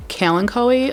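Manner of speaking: "kalanchoe" said KAL-an-koh-ee; four syllables, stress first, hard k in "kalanchoe"; alternative pronunciation. Real, not acted. Trying out ways to pronounce it.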